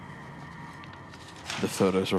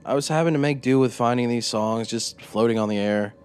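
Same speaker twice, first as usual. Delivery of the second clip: higher, louder, eager confession; proud storyteller voice; 4 semitones higher, 4 dB louder than usual. Acted. Narrator-character boasts to interrogator.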